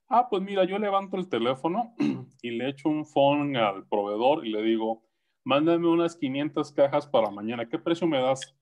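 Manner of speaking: the key user explaining how he buys, a hint of a voice; imitating the key user. Consultant mimics the key user describing purchases, lightly voiced.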